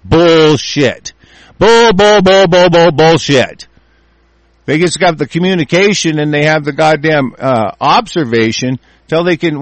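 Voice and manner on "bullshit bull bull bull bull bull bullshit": louder stuttered bull bull bull; repeated angry bullshit. Real, not acted. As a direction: spit out each bull in scorn.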